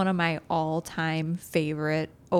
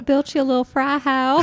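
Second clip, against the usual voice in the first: higher, louder goofy character voice; 7 semitones higher, 6 dB louder than usual. Retold or imitated. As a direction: play the sweet goofy guy. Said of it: "And he's like".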